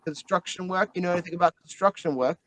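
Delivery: put-on a light Australian accent, quick; Aussie accent. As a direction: toss it off like an Aussie tradie. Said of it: "Can't do the accent for too long".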